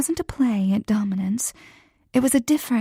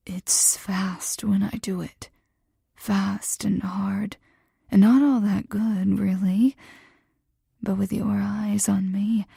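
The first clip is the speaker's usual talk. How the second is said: hoarse voice. Acted. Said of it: "His voice was hoarse".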